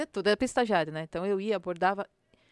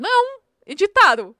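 much higher, louder playful denial; mock innocent; 11 semitones higher, 15 dB louder than usual. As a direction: play the innocent with mom. Joking denial to mother. (negação fingida, bem mais aguda)

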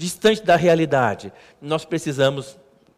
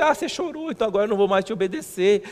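mock daughter; 3 semitones higher, faster than usual. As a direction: tease like a cheeky kid. Mock child mocking father.

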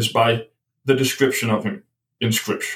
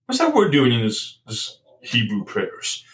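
much higher, sudden "wait" of discovery; startled realisation; 4 semitones higher than usual. Retold or imitated. Guest retelling hearing a Greek word at Passover, startled. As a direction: catch yourself hearing something unexpected. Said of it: "I said".

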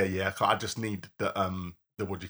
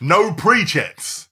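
incredulous; 7 semitones higher, 9 dB louder, much slower than usual. Real, not acted. Incredulous echo of no pre-checks.

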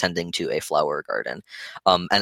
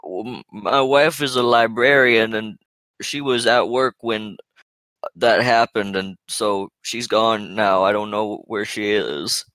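put-on old man voice; 3 semitones higher than usual. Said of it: "he's like".

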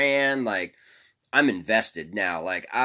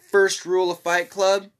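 raised, louder retold yell; yelled call; 8 semitones higher, 5 dB louder than usual. Speaker retells hollering a film line at two bloodied kids, yelled call. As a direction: call it out higher, as if to strangers. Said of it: "and I yell out".

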